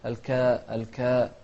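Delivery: الكاء with a thin long a; light alif. Shown as a demonstration. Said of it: "الترقيق في الألف".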